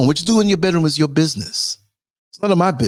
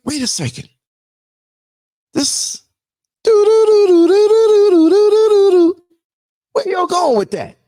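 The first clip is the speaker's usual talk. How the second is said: high, loud stunned outburst; shocked disbelief; 6 dB louder than usual. Retold or imitated. Mock shocked onlooker yelling at the news. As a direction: rise up in disbelief.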